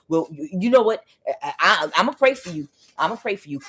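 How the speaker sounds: a hint of a pious pastor; pastor brushing off. The caught pastor brushing off the accuser with a pious promise. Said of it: "he gonna sound like a pastor".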